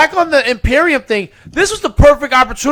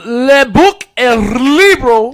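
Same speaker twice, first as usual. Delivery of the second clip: segment announcer; 4 dB louder, slower than usual. Acted.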